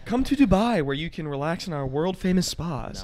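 upbeat TV ad pitch; infomercial. Pretend. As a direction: sell it like a late-night commercial. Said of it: "I'm gonna read this like an infomercial".

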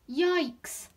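high, loud storybook yelp; alarmed exclamation. A narrator's reading. Little fish meeting real danger, alarmed yelp.

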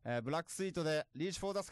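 put-on song intro in a Tohoku accent; 東北弁. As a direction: announce it with a Tohoku twang. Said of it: "俺、東北なまりだけど". (東北なまりで曲紹介)

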